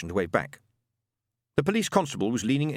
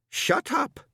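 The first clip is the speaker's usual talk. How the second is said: sudden shout. Acted. Ron snapping at wife.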